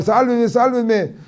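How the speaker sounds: high, slow mock cry for help; hammed-up plea from the bottom of a well. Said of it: "empieza a gritar". (grito de auxilio fingido, agudo y lento)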